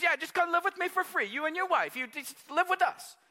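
imitating a big-hearted Samoan man in pidgin English. Samoan church brother offering his home, pidgin English. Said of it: "They talk pidgin English".

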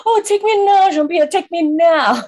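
high, loud swoon of adoration; mock swooning. Listeners smitten by the Frenchman's accent, mock swooning. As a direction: gush as if hopelessly smitten, hammed up.

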